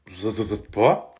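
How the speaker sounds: slow, lisped denial; low and drawn out, tongue in the way; lisping. Acted. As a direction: deny the lisp while lisping. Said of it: "Si, tu zozotes".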